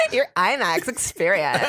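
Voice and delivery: a hint of a whiny girl, laughing through it; giggly put-on girl voice, lightly done; annoying girl voice. For the friends, a laughing annoying-girl trailer line. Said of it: "do the annoying girl voice".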